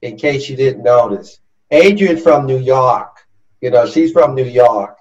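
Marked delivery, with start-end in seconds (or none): 1.7-5.0 put-on a self-admittedly weak New York accent, a bit louder; host teasing his New York guest with a mock New York accent. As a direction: ham up a New Yorker's accent playfully. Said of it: "that's my best New York accent".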